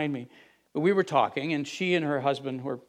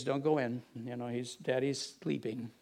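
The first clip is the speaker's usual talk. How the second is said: put-on softer, hushed aside to the children; hushed warning; 6 dB quieter than usual. Wife quietly telling the kids to stay out, hushed.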